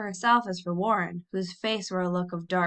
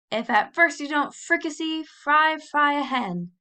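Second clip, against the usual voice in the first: higher, much louder panicked recitation; 7 semitones higher, 5 dB louder, slower than usual. A narrator's reading. Warren reciting nervously to the school, very loud blurt. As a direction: blurt it out in front of everyone. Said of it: "recite in a very loud voice".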